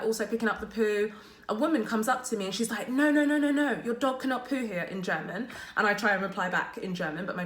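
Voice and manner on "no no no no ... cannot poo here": imitating a stranger telling her off; stern scolding. Woman on the street scolding her about the dog, a sharp, raised, insistent telling-off.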